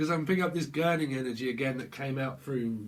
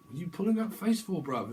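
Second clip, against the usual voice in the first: mock confrontational; 5 semitones higher than usual. Voiced quote, challenging.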